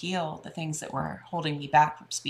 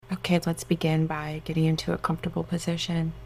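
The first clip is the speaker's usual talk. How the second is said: guided meditation. Acted. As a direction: soothe them into relaxation.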